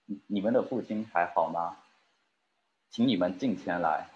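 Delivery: lightly voiced tender brother; gentle voice. Joseph gently asking his brothers about their father. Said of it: "肯定是很温柔的声音".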